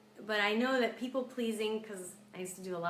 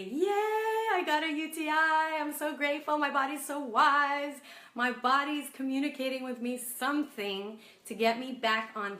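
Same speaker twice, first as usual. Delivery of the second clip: beam with over-the-top thankfulness, almost singing; cheerful gratitude; 2 semitones higher, 3 dB louder than usual. Pretend. Coach acting out a grateful reply to her infection, sing-song cheer. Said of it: "Instead, I can say".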